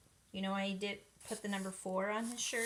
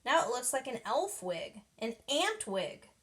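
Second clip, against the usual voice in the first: upset; 5 semitones higher, 3 dB louder than usual. Acted. Stink blaming Judy for the shrunken wig, complaining. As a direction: whine it out, dragging the words.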